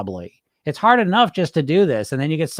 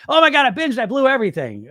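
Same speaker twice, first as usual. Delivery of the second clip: high, loud hammed-up wail; mock despair; 8 semitones higher, 4 dB louder than usual. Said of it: "Okay, great".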